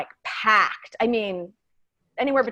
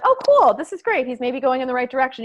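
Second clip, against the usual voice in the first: mock delighted; 3 semitones higher than usual. Mock hopeful reaction, retold.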